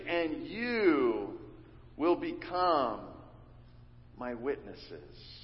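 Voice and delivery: slow, weighty quotation of the verse; measured, deliberate scripture quote; slow emphatic quote. Shown as a demonstration. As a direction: lean on each word, slowly. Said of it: "start with that phrase".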